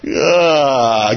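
long "ah" of a body getting back up; acted rising groan. Imitates the dead person rising.

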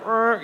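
downbeat mock groan; Debbie Downer. Preacher mimics a discouraging farewell, mock-glum groan. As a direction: let out a glum little "er". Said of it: "kinda like Debbie Downer".

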